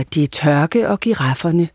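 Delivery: low-pitched wildlife voice-over; classic nature documentary narrator. Shown as a demonstration. Actress demonstrates her radio nature voice-overs, classic narrator voice. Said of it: "Altså sådan helt klassisk, hvor man skal sige".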